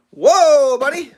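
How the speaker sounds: high, loud call to the dog. Real, not acted. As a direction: stop the dog with a sharp call. Calling out to the dog.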